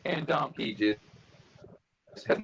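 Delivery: jumpy, choppy call audio; words cutting out over a bad line; audio breaking up. Real, not acted. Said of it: "it was very jumpy".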